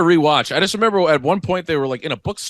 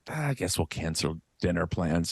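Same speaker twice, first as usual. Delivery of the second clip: mock shrug; 8 semitones lower, 11 dB quieter than usual. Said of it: "y'all are like".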